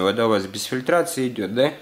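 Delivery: ordinary talk, nothing marked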